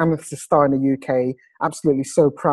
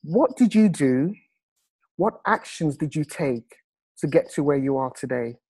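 slow, deliberate question with pauses; 4 dB quieter than usual. Real, not acted. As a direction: say it slowly so everybody can hear, softening towards the end. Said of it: "say this very, very slowly".

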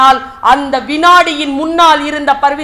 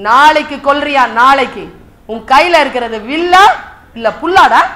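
loud, taunting questions; acted angry taunt; scornful challenge; 6 dB louder than usual. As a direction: throw his promise back at him. Dharman taunts Arjuna about his bow.

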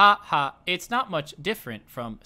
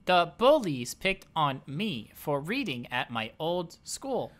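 flat robotic monotone. Acted. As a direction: speak like a robot, even and mechanical. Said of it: "Why are you talking like a robot?".

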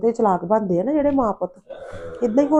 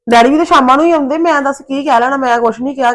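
indignant protest; 4 semitones higher, 6 dB louder than usual. Acted. Daughter defends herself in quarrel.

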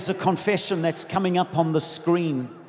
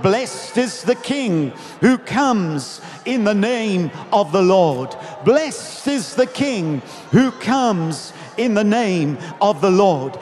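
slow, stretched-out proclamation; crowd's shout; 5 dB louder, slower than usual. Retold or imitated. Others in the crowd hail the King, proclaiming. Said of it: "They shouted".

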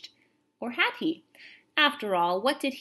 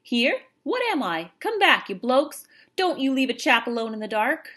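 high, loud English soldier's protest; thin English voice calling; 5 semitones higher, 7 dB louder than usual. A narrator's reading. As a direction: call out indignantly from shut inside, English-accented. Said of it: "a thin English voice called from the inside".

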